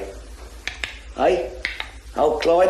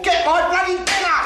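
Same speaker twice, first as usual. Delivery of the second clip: higher, barked demand; irritable husband shouting for his dinner; angry demand; 8 semitones higher than usual. Acted. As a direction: bark the order at her.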